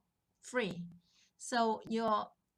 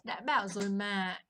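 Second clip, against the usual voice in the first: satisfied told-you-so; 2 semitones lower, 4 dB louder than usual. Shown as a demonstration. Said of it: "it's so satisfying to you when you get to say this".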